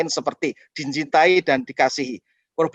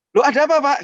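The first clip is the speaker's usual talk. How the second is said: high, loud alarmed question; a worried churchgoer; alarmed congregant; 10 semitones higher, 5 dB louder, faster than usual. Retold or imitated. Churchgoer to pastor, high alarmed question.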